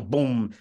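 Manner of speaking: vocal incoming-round whoosh and boom; imitated explosion. Soldier retelling rounds coming in, imitated explosion. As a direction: mimic a shell landing with a boom. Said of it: "So you hear the".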